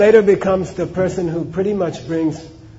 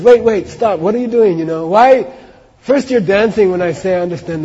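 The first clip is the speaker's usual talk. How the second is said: urgent protest; 3 semitones higher, 5 dB louder than usual. Acted. Bewildered monk stops the wailing woman, urgent protest. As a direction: cut in, demanding an explanation.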